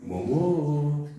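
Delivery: gentle granny calling a pet name; tender grandmother call; grandma voice. Retold or imitated. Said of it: "voz de vó".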